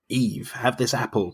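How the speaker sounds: slow, lightly voiced sly serpent; snake tempter. Host voices Mills as the Eden snake, slow and lightly sly. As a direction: offer the apple like a tempting snake, slowly. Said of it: "you know, going".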